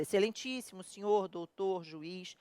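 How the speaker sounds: formal address. Shown as a demonstration. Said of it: "tu fala".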